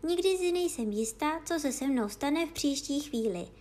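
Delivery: a hint of a girl talking to herself; puzzled young Alice; Alice musing.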